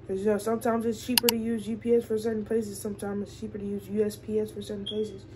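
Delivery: stuffy, blocked-nose voice; congested. Real, not acted. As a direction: talk through a congested nose. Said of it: "I do sound a bit congested".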